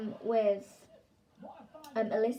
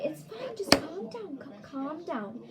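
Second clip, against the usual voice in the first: retold soothing; 6 semitones higher than usual. Dinner lady soothes a panicking child.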